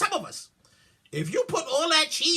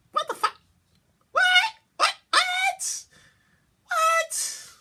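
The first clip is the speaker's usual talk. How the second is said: stunned what; slower than usual. Real, not acted. Stunned at Dorito nachos.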